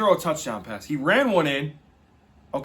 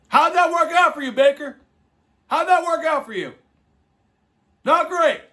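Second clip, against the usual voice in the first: taunting; 9 semitones higher, 5 dB louder than usual. Real, not acted. Taunting Baker Mayfield.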